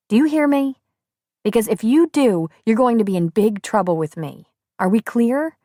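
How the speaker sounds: put-on brisk, lively young woman. A narrator's reading. Shelby gives strict orders.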